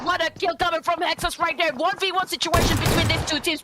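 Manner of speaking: breathless fast play-by-play; calling it until out of breath. Real, not acted. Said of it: "ran out of breath there".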